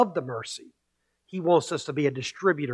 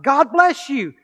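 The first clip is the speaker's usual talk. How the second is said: high, louder call of blessing; shouted blessing; 10 semitones higher, 6 dB louder, slower than usual. Retold or imitated. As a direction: call the blessing out across the hill. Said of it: "so he shouted out".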